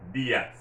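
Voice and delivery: "dias" as DEE-as, falling after the stressed i. Shown as a demonstration. Teacher applying the accent rule, stress on the I in dias. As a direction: put the weight on the i of "dias". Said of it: "you have to stress that I".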